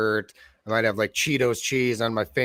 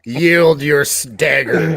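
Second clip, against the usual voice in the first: joking quip; 4 semitones higher, 10 dB louder, much slower than usual. Pretend. Friend joins the joke.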